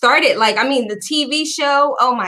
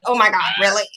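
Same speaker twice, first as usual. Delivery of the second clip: laughing through a retold "really?"; laughing disbelief; 4 semitones lower, faster than usual. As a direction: giggle it out amazed. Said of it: "I was like".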